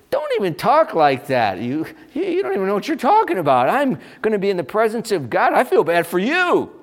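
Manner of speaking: loud, high-pitched protest, rushing in the middle; indignant retort. Acted. Dying believer rebuking the one who pities her, loud and indignant. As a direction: fire back loudly in mock offence, pitch jumping up.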